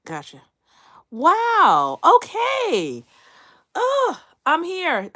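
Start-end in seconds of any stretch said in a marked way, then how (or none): 1.1-5.1 much higher, louder, slow delighted gasp; real delight, high and loud. Real, not acted. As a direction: marvel at seeing yourself appear. Delighted seeing herself on screen.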